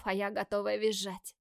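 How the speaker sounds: ordinary delivery, nothing marked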